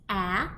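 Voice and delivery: short a as in apple, said clearly on its own; short a sound. Shown as a demonstration. Teacher showing kindergartners the short a sound. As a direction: model the vowel sound for the class. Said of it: "A says".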